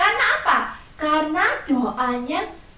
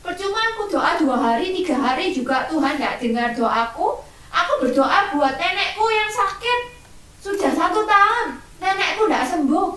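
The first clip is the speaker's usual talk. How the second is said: put-on fast, higher complaining child; mock angry child grumbling at God; sulking child; 3 semitones higher than usual. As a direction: whine like a cross kid who gave up praying. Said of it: "terus kalian marah sama Tuhan".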